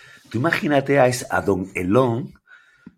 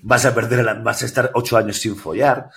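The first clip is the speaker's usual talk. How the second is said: laughing mock threat; 5 dB louder than usual. Mocking a chain email aloud.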